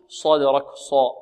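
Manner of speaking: صدرك with lips rounded on the sad; wrong rounded sad. Shown as a demonstration. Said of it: "ولا نضم الشفتين في الصاد".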